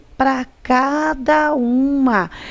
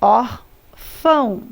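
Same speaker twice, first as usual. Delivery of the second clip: slow dictation; much slower than usual. Shown as a demonstration. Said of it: "lembra de colocar o acento".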